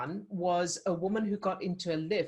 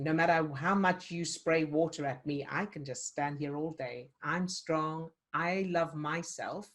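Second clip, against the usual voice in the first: calm steady resolve; 2 semitones lower than usual. Shown as a demonstration. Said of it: "balancing thing".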